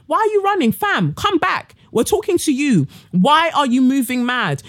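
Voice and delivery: high, mocking call after her; calling after someone. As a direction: shout after her as she runs off. Calling after fleeing Theresa May.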